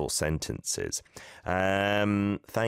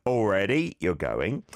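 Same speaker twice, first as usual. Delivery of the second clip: mock surprise. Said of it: "You're in a rush to say that".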